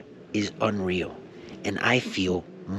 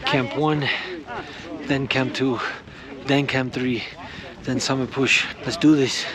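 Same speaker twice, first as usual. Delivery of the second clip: pumped up; 4 semitones higher than usual. Real, not acted. Hype montage, rallying himself.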